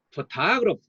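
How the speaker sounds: photograph said as in photographer, stressing the second syllable TO; photographer-style stress; stress shifted to TO. Shown as a demonstration. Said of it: "이렇게 바뀝니다".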